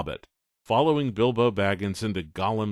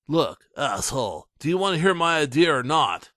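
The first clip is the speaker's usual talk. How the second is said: louder, higher held-in anger; tight, controlled anger; 7 semitones higher, 5 dB louder than usual. Acted. Coker snapping at Ray, tight controlled anger. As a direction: barely hold the temper. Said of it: "in a tight, controlled voice".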